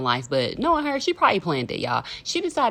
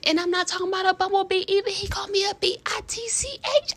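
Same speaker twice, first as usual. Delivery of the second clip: outraged disbelief; 12 semitones higher, 3 dB louder than usual. Real, not acted. Outraged telling of insult.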